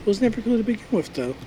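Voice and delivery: fast quiet whispered aside; whispering. Real, not acted. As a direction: say it under your breath, quickly. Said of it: "Why are you whispering?".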